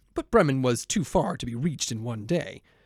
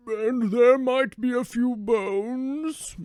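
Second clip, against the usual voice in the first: hopeful dog; 10 semitones higher, 3 dB louder, much slower than usual. Acted. Dog voice in fairy tale.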